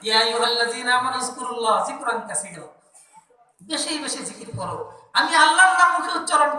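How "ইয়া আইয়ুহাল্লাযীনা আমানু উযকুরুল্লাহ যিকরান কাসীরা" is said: Quranic recitation. Real, not acted. Quotes Quranic verse.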